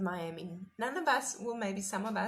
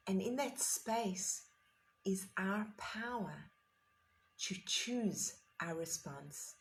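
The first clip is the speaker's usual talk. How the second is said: slow, weighty reading of a quote; reverent quote reading; slower than usual. Shown as a demonstration. To the meditation group, reading Frankl's quote slowly and reverently. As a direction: let each phrase land slowly and fade. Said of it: "And here is the magnificent quote".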